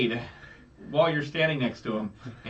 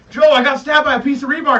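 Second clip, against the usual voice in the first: loud, raised mock urgency; retold alarmed announcement; 8 semitones higher, 7 dB louder than usual. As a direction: blurt it out loudly to the contractor. Alarmed shout to contractor, retold.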